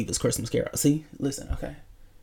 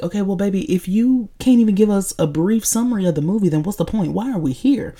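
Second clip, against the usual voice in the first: higher, pointed, lightly acted complaint; mock exasperation; 5 semitones higher than usual. Imagined listeners demanding a summary from the host, mock exasperated. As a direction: challenge her like a fed-up listener, pitched up.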